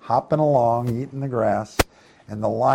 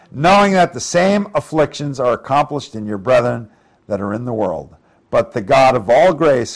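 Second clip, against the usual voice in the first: raised, solemn reading of the verse; scripture reading. Acted. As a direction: read it out like holy writ. Reads scripture aloud in sermon.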